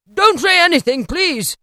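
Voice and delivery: high, loud, effusive interruption; emphatic retort. A narrator's reading. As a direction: cut him off heartily. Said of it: "retorted Scrooge".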